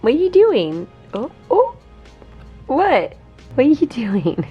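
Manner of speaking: high loud pet talk. Real, not acted. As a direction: squeal at the wild cat. Cat going crazy, she reacts.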